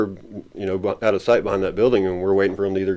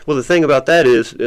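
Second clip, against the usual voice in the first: a hint of an ancient sage, slightly raised; wise old man; 5 semitones higher, 5 dB louder than usual. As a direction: speak with unhurried ancient wisdom, lightly. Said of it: "from puppy to million-year-old wise man".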